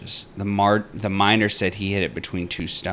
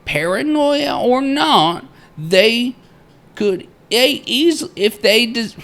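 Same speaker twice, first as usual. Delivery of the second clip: high, emphatic theatrical miner; old-time miner's journal; 10 dB louder, much slower than usual. Acted. Reading the miner's journal aloud and stumbling, theatrical miner voice. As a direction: declaim it as a grandiose diarist, then falter.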